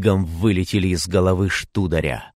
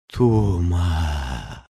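rasping witch call; 2 semitones lower, 3 dB quieter than usual. A narrator's reading. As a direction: rasp the name like a corpse. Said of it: "захрипела она".

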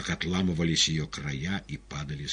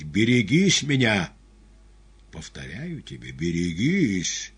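угроза; 4 semitones higher, 8 dB louder than usual. A narrator's reading. Пилат угрожает арестанту.

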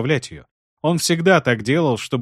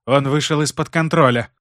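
defiant; 2 semitones higher than usual. Acted. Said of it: "с вызовом произнесла Айсель".

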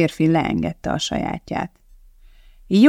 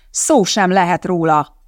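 shouting; 3 dB louder than usual. Acted. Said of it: "ordította Donatti".

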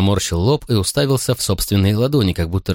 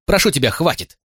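a cry of frustration that breaks loose, much higher; shouting; 11 semitones higher than usual. Acted. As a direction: burst out, begging him to stop. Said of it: "закричал я".

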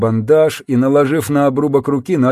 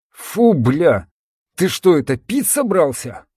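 disgusted; 4 semitones higher than usual. Acted. Disgusted at the smell.

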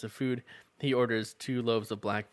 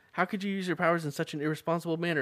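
mock scolding; 6 semitones higher, faster than usual. Shaw scolding her.

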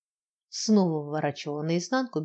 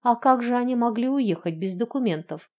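bewildered; 6 semitones higher, 4 dB louder than usual. Acted. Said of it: "растерянно проговорила Катерина".

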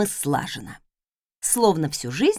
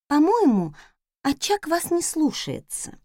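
maid suggesting; 7 semitones higher than usual. Acted. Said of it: "подсказала Раиса".

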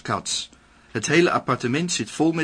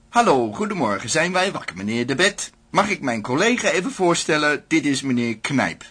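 cheerful official; 4 semitones higher than usual. Acted.

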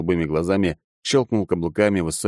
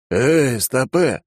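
higher, mildly raised yell; a restrained narrated shout, pitched up; yelled halt; 6 semitones higher, 4 dB louder, much slower than usual. A narrator's reading. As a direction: call out to stop someone running ahead. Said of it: "заорал Алекс".

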